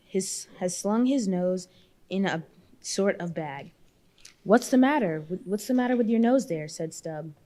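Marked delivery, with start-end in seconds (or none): 4.4-6.7 calling out. Acted. Stubb hails the Frenchman.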